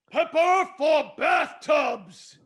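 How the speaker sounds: commander's cry; rallying shout. Acted. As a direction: roar it to the legion. Commander rallies legion.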